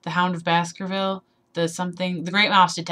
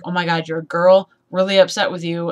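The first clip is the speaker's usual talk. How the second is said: mock outrage; 7 dB louder than usual. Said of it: "And then it was like".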